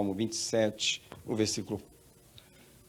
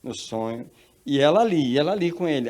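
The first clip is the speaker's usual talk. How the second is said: usual speaking voice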